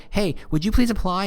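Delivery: high-pitched mock begging; desperate plea. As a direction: act out a needy, pleading recruiter. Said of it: "you're desperate for those applications".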